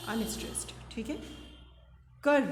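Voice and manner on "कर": "कर" pushed outward on the breath, with stress; stressed syllable. Shown as a demonstration. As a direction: send "कर" out firmly as a stressed beat. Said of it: "कर को हमने बाहर के लिए बोला".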